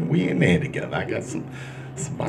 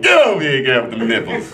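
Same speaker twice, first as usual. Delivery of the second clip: mock eager call; 6 semitones higher, 5 dB louder than usual. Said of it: "I was like".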